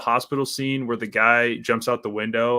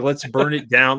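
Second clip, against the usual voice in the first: mocking cheesy line; 5 dB louder than usual. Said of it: "cheesy shit".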